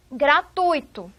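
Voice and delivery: GRATUITO said slowly, ui as one gliding syllable; correct pronunciation demo. Shown as a demonstration. Teacher introduces the word gratuito to class, careful pronunciation. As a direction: stress the TUI in gratuito, u leading into i. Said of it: "a pronúncia é gratuito".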